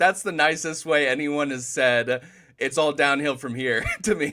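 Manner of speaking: talking through chuckles, loud and slow. Reacting to the other speaker's remark, laughing while talking. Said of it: "I'm just laughing here a little bit".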